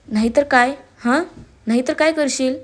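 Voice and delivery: mildly angry, defiant questioning; understated, annoyed defiance; irritated challenge. Acted. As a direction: dare him with a touch of anger. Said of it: "दीक्षा चिडून त्याच्या डोळ्यात पाहत होती".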